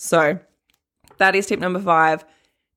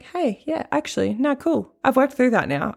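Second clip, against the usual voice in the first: breezy client; 6 semitones higher than usual. Retold or imitated. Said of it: "they come back and they're like".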